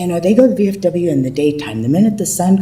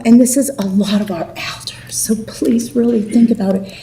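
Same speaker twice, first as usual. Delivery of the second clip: whispered plea. Real, not acted. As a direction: drop to a whisper for this part. Pleading aside to council.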